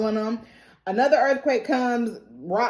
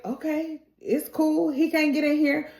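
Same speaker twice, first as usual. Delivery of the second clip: acted reassurance; 4 semitones higher than usual. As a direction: reassure her lightly. Character reassuring a panicking friend.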